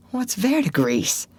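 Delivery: put-on a different boy's voice; curious boy asking; Huck, puzzled by the word. A narrator's reading. Huck asks about poison.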